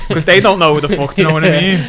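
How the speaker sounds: 2 loud, high, laughing; 3 crack up while saying it. Real, not acted.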